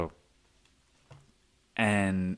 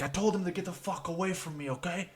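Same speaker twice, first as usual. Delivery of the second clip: John Cena explaining; 7 semitones higher, 7 dB quieter, faster than usual. Retold or imitated. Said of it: "he's like".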